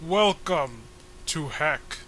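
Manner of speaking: lightly voiced grand villain welcome, slow start; theatrical troll host. Villain greeting visitors to his lair, mildly pompous. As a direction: announce yourself like a pompous villain.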